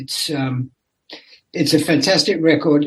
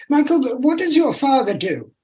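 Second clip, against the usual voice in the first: posh schoolmate; 8 semitones higher than usual. Retold or imitated. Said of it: "My, my, my".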